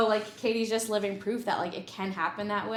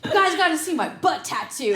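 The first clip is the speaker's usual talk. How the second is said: laughing quote; 8 semitones higher, 8 dB louder than usual. Retold or imitated. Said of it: "But he's like".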